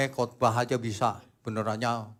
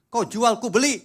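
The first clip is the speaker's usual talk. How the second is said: louder, defiant "Kau jual, ku beli"; preacher mocking a street-fighter motto, louder; worldly motto; 9 semitones higher, 7 dB louder than usual. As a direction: throw out the tough-guy saying. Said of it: "orang dunia prinsipnya gini".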